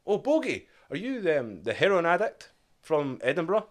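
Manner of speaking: officer quizzing the recruit in a high plummy voice; posh officer. Retold or imitated. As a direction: lilt it like an intrigued officer.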